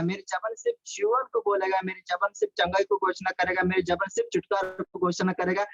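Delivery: usual speaking voice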